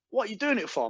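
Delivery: put-on high phone salesman accent; Aaron's accent. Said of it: "I'm not exaggerating this accent".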